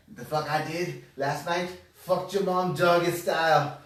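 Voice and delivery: slow, lightly acted drunken boast; drunk heckler. Older drunk back at the bar, slow drunken taunt. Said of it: "there's an older drunk gentleman".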